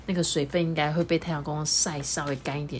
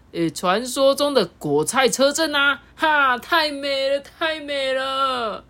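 high, slow and moved; tearful rapture; 8 semitones higher, slower than usual. Acted. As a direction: gasp it out, close to tears. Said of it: "韩吉喊着啊，眼中泛着泪水".

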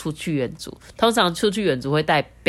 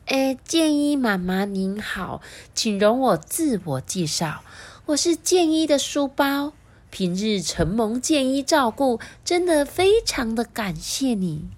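polite formal bag; 7 semitones higher than usual. Acted. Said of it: "很有礼貌地对妈妈说".

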